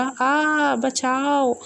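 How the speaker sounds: mild mock scream, pitch up for the first cry; a lightly voiced frightened yelp; understated cry for help while falling. A narrator's reading. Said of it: "चिल्लाते हुए बोला".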